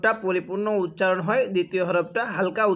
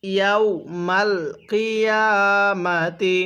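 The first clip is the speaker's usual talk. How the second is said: slow, drawn-out Arabic recitation; ধীরে তিলাওয়াত; slow Quran recitation; much slower than usual. Shown as a demonstration. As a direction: recite each syllable slowly for the student. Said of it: "কিভাবে পড়ব?".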